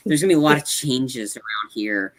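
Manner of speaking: casually imitating a nonchalant dad; lightly voiced, unbothered announcement. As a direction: toss it off, mildly offhand. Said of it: "like, this nonchalant".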